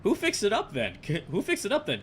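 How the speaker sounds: can't believe what you see; real bewildered disbelief; baffled. Real, not acted. Baffled by restored town.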